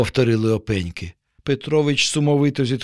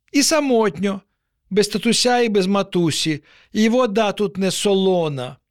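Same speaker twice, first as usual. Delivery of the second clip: lonely little crab; 6 semitones higher than usual. A narrator's reading. Lonely crab lists its woes.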